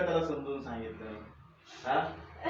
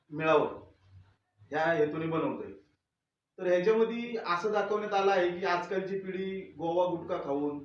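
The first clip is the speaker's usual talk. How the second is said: formal address. Acted. Filmmaker addresses viewers.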